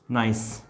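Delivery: "नाइस" ending in a clear S; pronunciation demo. Shown as a demonstration. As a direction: say "नाइस" alone, final S sounded. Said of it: "इसका उच्चारण स होगा".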